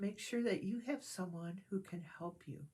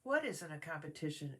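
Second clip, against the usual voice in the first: a mild puzzled question; Pooh, mildly bewildered; confused; 2 semitones lower than usual. Acted. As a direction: ask as if lost. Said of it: "asked a confused sounding Pooh".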